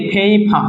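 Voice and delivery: ফেইফা with a puffed "ph" opening each syllable; aspirated p sound. Shown as a demonstration. Teacher showing syllable-initial p, ফেইফা with two aspirated sounds. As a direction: say ফেইফা as "phei-pha", both consonants airy. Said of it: "তো এটা ফ হবে, এটাও ফ হবে".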